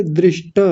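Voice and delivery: दृष्ट with a vowel after T, DRISH-TA; wrong full TA. Shown as a demonstration. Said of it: "ट को पूरा कर रहे थे". (दृष्ट का 'ट' पूरा, दृष्-ट)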